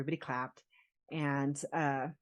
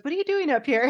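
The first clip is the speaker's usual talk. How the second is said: surprised question; 9 semitones higher, 6 dB louder, faster than usual. Retold or imitated. Rob surprised at BJ sitting.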